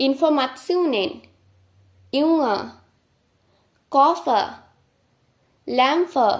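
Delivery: each German word said slowly and clearly; German words demo. Shown as a demonstration. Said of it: "কয়েকটি word pronunciation করে আমরা দেখি". (German শব্দ স্পষ্ট উচ্চারণ)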